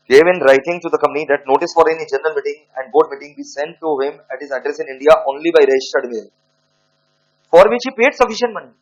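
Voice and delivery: dictating word by word to students; slow dictation. Acted. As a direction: spell it out slowly for the class to write down. Dictating the case facts.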